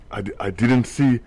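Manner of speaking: put-on Russian accent. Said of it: "now I am also speaking in a Russian accent".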